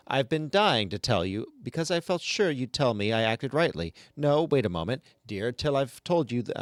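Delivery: lightly voiced, run-on complaining chatter; grumbling ghost woman. Reading the ghost's endless complaint to the class, a mild put-on whine. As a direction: rattle it off like a self-pitying gossip, barely shifting your own voice. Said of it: "I'm going to try to do the voice".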